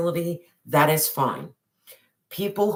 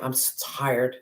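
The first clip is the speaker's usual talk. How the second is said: weary sigh; 4 dB quieter than usual. Pretend. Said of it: "reaching out to God and saying".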